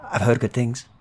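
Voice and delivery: friendly stranger nosing in on the locals; Midlander trader. Acted. GM voices the trader.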